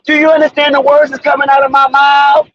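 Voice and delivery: a hint of the fast-talking cop from the movie; Chris voice. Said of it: "My Chris voice".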